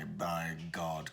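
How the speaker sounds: put-on older man weighing his words; weighty, considered. Shown as a demonstration. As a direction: give each word gravitas, unhurried. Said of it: "they might consider their words a little more".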